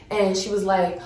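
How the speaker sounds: normal talking voice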